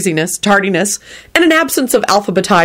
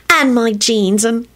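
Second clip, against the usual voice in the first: slow, higher-pitched teasing; coy; 4 semitones higher, slower than usual. A narrator's reading. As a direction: list it coyly, in no hurry. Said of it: "she replied coyly".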